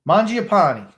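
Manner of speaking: Mangiapane as MAHN-jee-a-PAH-nee, loud and high; pronunciation demonstration. Shown as a demonstration. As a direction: sound out Mangiapane with an AH in first and third syllables, final "nee". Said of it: "how do I pronounce this name".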